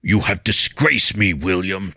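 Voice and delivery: each word weighed down with disappointment; teacher rebuking his pupil; stern rebuke. A narrator's reading. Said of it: "Jiro barked".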